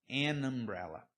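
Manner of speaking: "An umbrella" com an ligado; som de vogal. Shown as a demonstration. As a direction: diga "An umbrella" ligando o n à vogal. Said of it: "Mas quando o som é an". (an umbrella)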